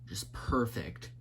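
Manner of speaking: soft whispered praise. Real, not acted. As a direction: breathe it out admiringly. Admiring the colors, softly.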